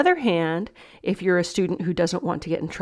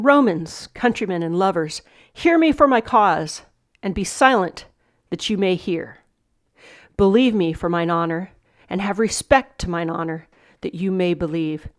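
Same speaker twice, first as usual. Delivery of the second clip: measured oratory, openings raised then settling; Shakespeare speech read aloud; 3 dB louder than usual. Acted. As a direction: read it out as Brutus addressing the crowd.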